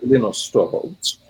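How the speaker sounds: "Linus" said LEE-noos; long ee in "Linus", as in Finnish; Finnish-style name. Shown as a demonstration. Guest explaining the pedantic form, LEE-noos for "Linus". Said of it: "were tremendously pedantic".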